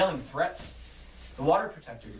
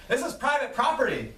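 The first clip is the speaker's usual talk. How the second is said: angry yell; 9 semitones higher than usual. Acted. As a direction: yell it to drive them off. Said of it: "one of the workers yells".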